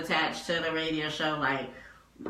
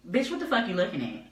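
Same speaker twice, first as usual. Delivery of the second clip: mock hostile greeting; 4 dB quieter, faster than usual. Shown as a demonstration. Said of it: "this is violent".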